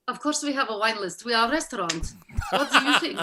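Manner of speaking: lightly voiced, withering Romanian accent; indifferent Romanian waiter. Waiter answers diner asking for wine list, scornful Romanian. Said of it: "they just don't care".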